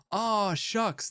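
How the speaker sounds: hammed-up Reddit nice-guy voice; mock Redditor voice. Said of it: "how Redditors talk".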